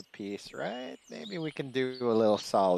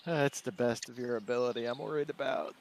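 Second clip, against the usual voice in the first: softer, worried aside; muttering under her breath; 5 dB quieter than usual. Acted. Astrea doubting the king's ability, muttered under her breath. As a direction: slip it out as a quiet grumble. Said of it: "muttering under her breath".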